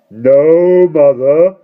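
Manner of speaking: a touch of a meek grown daughter. A narrator's reading. Large daughter answering her tiny mother, meek and timid. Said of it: "said Miss Fanny meekly".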